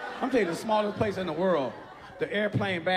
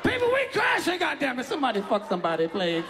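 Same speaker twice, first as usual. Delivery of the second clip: panicked plea; 3 semitones higher than usual. Acted.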